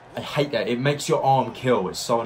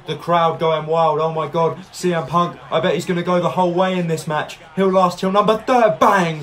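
excited; 5 semitones higher, 5 dB louder than usual. Real, not acted. Excited rumble commentary building.

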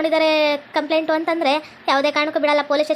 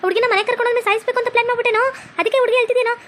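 indignant scolding; 5 semitones higher than usual. Acted. Policewoman confronts accused son.

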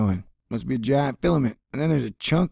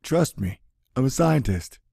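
a hint of a smug scientist; lightly voiced smug scientist; mocking scientists. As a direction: dismiss it smugly. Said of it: "science boys will say".

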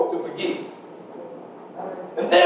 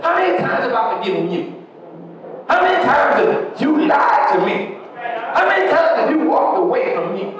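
God rebuking; faster than usual. Acted. God's voice rebuking a wayward child.

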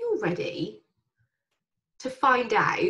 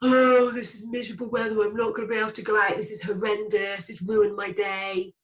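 a miserable inner voice moaning about the weather, shouting by the end; moaning brain voice. Retold or imitated. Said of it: "the bollocks that your brain comes out with is".

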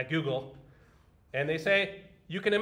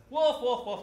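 higher, louder alarm call; raised mock yell of wolf; crying wolf; 8 semitones higher, 5 dB louder, slower than usual. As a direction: call the false alarm again, half-hearted boy. Boy cries wolf again.

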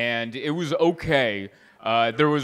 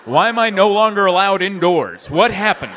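laughing disbelief; 4 semitones higher, 7 dB louder than usual. Pretend. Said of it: "I would be like".

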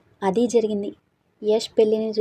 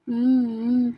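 crying whimper; 2 semitones higher, slower than usual. A narrator's reading. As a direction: whimper lightly with closed lips. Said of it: "ఏడుస్తూ". (ఏడుపు మూలుగు)

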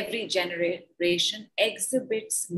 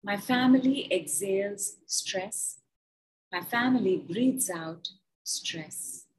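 slow, measured guided statements; guided affirmation; slower than usual. Acted. Guiding the group through breath work, slow and measured. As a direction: lay each phrase down slowly for the group.

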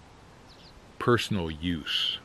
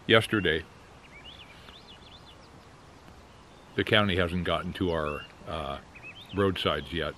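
talking around a pipe. Real, not acted. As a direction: pipe clenched in teeth. Seen 0: Pipe stem held between lips throughout; references show it in hand.

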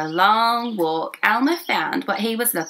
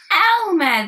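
surprised; 11 semitones higher, 6 dB louder than usual. Acted. Elephants recognise Elmer.

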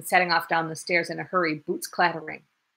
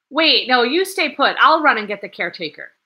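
urgent; 5 semitones higher, 9 dB louder than usual. Acted. Urgent plan.

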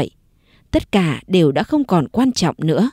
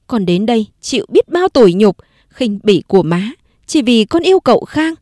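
bitter outburst; 3 semitones higher, 3 dB louder than usual. Acted. Diệu confronts mother-in-law bitterly.

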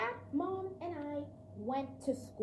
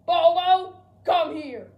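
loud angry summons, much higher; calling out; 5 semitones higher, 15 dB louder than usual. Acted. Dad angrily calling the dog, shouting. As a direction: yell for the dog to come now.

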